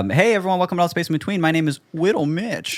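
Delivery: high, tiny cutesy voice; little voice. Acted. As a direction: say it like a small cute kid. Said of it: "I'm doing an, a little voice".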